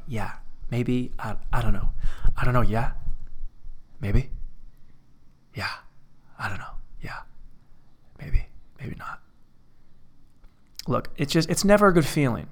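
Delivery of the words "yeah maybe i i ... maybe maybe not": small, halting evasive mumble; mock sheepish. Answering her own questioning about crying, mock sheepish. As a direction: dodge the question in little low fragments.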